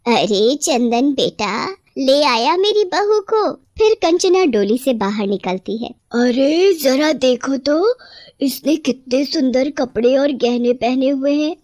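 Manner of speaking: slow, drawn-out greeting of a proud father-in-law; a lightly voiced old man admiring the bride; pleased old father. Father-in-law welcomes the new bride, slow and proud.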